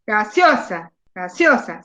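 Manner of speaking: "Gaseosa" with SEO leaned on, falling after; exaggerated stressed syllable. Shown as a demonstration. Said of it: "exageren y digan".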